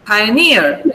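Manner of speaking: "Pioneer" with a long, falling NEER; clear stress. Shown as a demonstration. Teacher repeating "Pioneer" for students, NEER stressed. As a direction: lean on the last syllable of "Pioneer". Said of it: "clear where the stress is".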